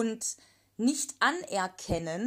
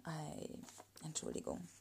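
quiet aside; 5 semitones lower, 15 dB quieter than usual. Real, not acted.

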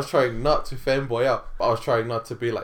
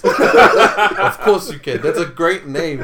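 mock enthusiasm; 7 semitones higher, 15 dB louder, much slower than usual. Over-the-top agreeing with Major Insane.

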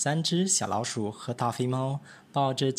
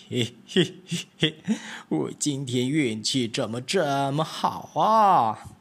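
sly, slower cat thinking aloud with a chuckle; scheming fat cat; 2 semitones lower, slower than usual. Acted. Fat cat plotting to eat the mice, sly and gleeful. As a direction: savour the plan like a sneaky cat.

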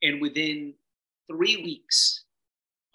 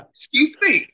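high, loud mock disbelief; reacting to the bill in disbelief; mock shock; 12 semitones higher, 7 dB louder than usual. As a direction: act stunned by the price.

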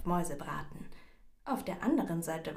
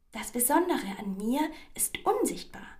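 higher, louder, lightly plucky mouse; brave little mouse; 5 semitones higher, 5 dB louder than usual. A narrator's reading. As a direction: answer up bravely as a small mouse. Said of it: "antwortete die kleine Maus mutig".

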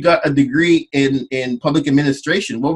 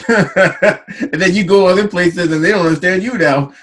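laughing; 4 semitones higher, 4 dB louder than usual. Real, not acted. Host laughing while speaking.

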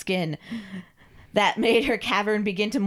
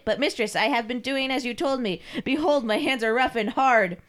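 higher, earnest servant voice; pleading submissive servant; 5 semitones higher than usual. Acted. Carl shows his obedience to his mistress, pleading. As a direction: protest meekly to your mistress.

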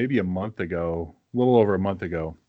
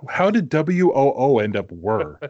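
incredulous; 3 semitones higher, 5 dB louder than usual. Real, not acted. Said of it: "incredulous at the mispronunciation".

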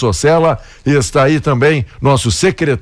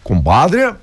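slow, slurred tipsy drawl; lightly voiced drunk man; 4 semitones higher, much slower than usual. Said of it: "o bêbado, ele chega no bar e disse".

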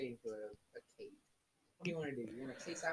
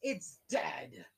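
whisper. Acted. GM's grim verdict.

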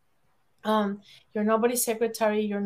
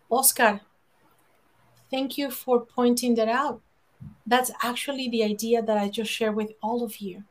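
steady, even, kindly claiming it back; calm and kind. Shown as a demonstration. Woman calmly reclaims her idea from Oscar, calm and kind. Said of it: "I'm going to calmly say".

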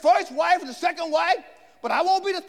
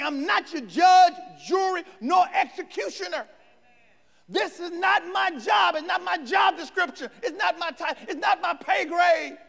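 firm refusal; 2 semitones higher than usual. Retold or imitated. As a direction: plant your feet and declare it. Joseph refuses to judge.

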